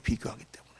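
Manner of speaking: quiet echo. Shown as a demonstration. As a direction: drop the voice for the echo of 비교하기. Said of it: "비교하기 때문에 그래요".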